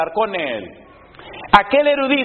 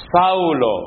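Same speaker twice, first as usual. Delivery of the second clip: voice of Jesus. Acted. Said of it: "oyó una voz que le decía".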